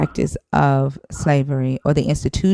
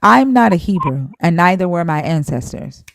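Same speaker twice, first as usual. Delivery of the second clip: indignant; 4 semitones higher, 6 dB louder than usual. Real, not acted. Host rejects caller's framing.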